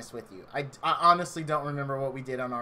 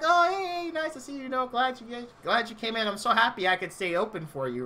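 much higher, eager charm that eases back down; turning on the charm; 5 semitones higher than usual. Retold or imitated. Clerk greeting the redhead he wants to impress, charming and high. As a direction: lay on the charm for the girl walking in. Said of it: "I'm trying to turn on the charm".

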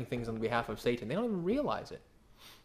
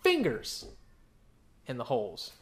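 Doubting Thomas; 8 semitones higher than usual. Retold or imitated. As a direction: hold out like a skeptic insisting on proof. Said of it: "He says".

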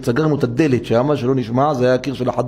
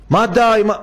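sharp, higher, louder protest; angry retort; 7 semitones higher, 4 dB louder than usual. Retold or imitated. Husband retorting to his wife, irritated and loud. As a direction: fire back at her in annoyance.

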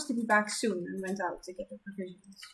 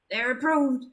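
talking through a bite; mouth full; 4 semitones higher, 6 dB louder, slower than usual. Acted. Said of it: "with a mouthful".

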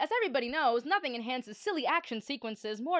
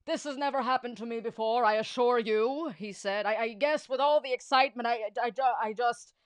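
flustered stammer; 6 dB louder than usual. Acted.

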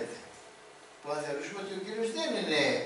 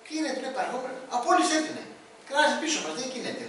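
annoyed disciples; 6 semitones higher, 3 dB louder than usual. Acted. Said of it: "οι μαθητές του".

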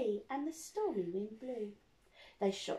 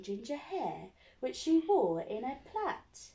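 put-on reading to children. Reads picture book to children.

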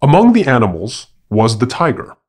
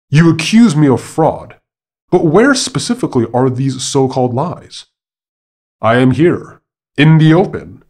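higher, louder protest, lightly acted; indignant challenge; 4 semitones higher, 4 dB louder than usual. A narrator's reading. Monkey defending himself to the accusing tiger, indignant challenge. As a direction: push back at the accuser, pitched up and emphatic.

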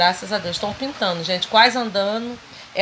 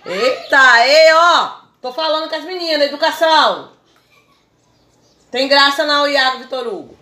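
scolding; 5 semitones higher, 7 dB louder than usual. Real, not acted. Scolding the boys in the hammock.

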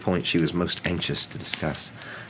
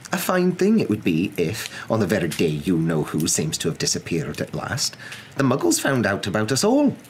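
indignant; 4 semitones higher than usual. Acted. Professor continues indignant complaint.

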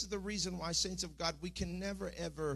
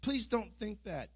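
higher, urgent pleading retold from a dream; 6 semitones higher than usual. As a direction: beg them not to go there, voice raised. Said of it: "and I was saying".

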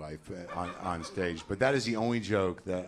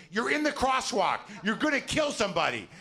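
much higher, shrill panicked warning; mock the wife's alarm, pitched way up; 13 semitones higher, 4 dB louder than usual. Wife panicking at crosswalk.

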